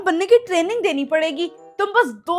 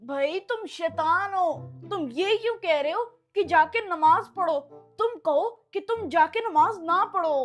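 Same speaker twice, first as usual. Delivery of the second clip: soft, secretive reproach; hushed correction; 7 dB quieter than usual. Acted. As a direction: correct your accomplice under your voice. Boy secretly corrects his devil companion.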